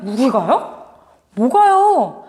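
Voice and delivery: short, curt mock retort; cold and stiff. Judah's people answering God curtly and coldly. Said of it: "그렇게 차갑게 얼음과 같은 마음으로 딱딱하고 차갑게".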